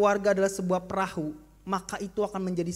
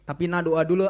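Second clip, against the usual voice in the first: father insisting; 4 semitones lower, 7 dB louder than usual. Acted.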